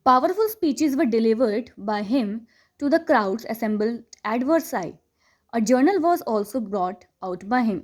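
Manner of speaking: slow, deliberate reading of the English text; textbook read aloud. Acted. Teacher reading the chapter to students, slow and deliberate. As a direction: read each phrase slowly for the class.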